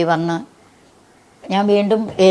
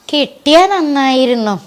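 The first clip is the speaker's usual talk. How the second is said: higher, slow, frail imitation of an old mother; lightly voiced elderly mother, drawn out; imitating her old mother; 7 semitones higher, 5 dB louder, slower than usual. Mother wishing for the chain, gently imitated old woman.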